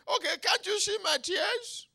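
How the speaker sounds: very high, loud appeal; exasperated plea. Acted. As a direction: plead in acted exasperation. David pleads again with God.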